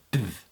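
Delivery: "th" voiced, begun like a D; DTH sound. Shown as a demonstration. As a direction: push a D into the "th". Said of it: "I imagine it as being D T H".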